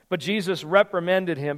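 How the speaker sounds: measured Bible reading to the congregation; scripture reading. Acted. Pastor reading Mark to the church, clear reading voice. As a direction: read the passage out, lightly dramatized.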